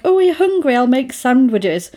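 a hint of doting mum; imitating a fussing mum. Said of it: "Such a mum thing".

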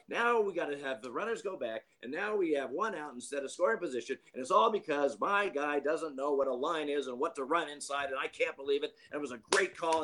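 high, exasperated mock rant; imitating a manager griping. Manager complaining to the umpire, high and exasperated. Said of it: "He proceeds to tell me about".

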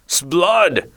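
fierce exclamation. A narrator's reading. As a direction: bark the oath like a stage pirate. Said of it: "he ejaculated fiercely".

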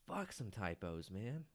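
soft, slow, muttered curse; deflated mutter. Real, not acted. Host giving up on typos, soft slow mutter. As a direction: let it sink under your breath.

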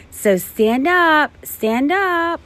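high, eager command; excited urging. Acted. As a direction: get the kids on their feet. Teacher urging kids up.

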